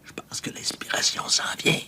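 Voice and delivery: hushed mystical whisper. Acted. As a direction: breathe it like a revelation. Writer mock-mystical, inspiration coming. (chuchoté, comme une révélation)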